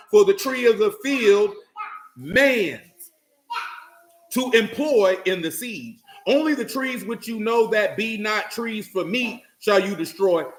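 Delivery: preacher rereading the passage; reading again. Acted. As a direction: read it out deliberately to make it land. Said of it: "Let me read it to you again".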